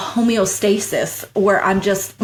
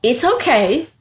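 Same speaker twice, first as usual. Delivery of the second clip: reassuring self-talk; 3 semitones higher than usual. Retold or imitated. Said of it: "I literally had to tell myself".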